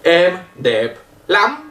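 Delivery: slow "Em đẹp lắm", "lắm" nasal and lifted; nasal short A. Shown as a demonstration. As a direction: demonstrate slowly, ending "lắm" on a short nasal rise. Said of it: "Vous avez entendu?". (« lắm » nasal et montant, phrase lente)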